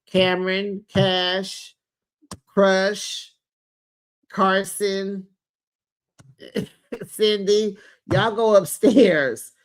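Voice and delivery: lightly acted parent calling out names, one by one; calling the kids. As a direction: call each child, then send them off, drawn out. Retold mother sending kids upstairs.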